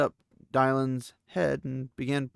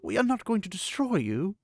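firm; 8 semitones higher than usual. A narrator's reading. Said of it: "Elaine said firmly".

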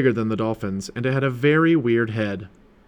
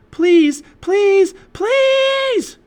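very high, loud begging; desperate shout; 9 dB louder, much slower than usual. A narrator's reading. Annie pleading with the blinking octopus, shouting. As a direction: shriek the plea, rising on each repeat. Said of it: "she shouted".

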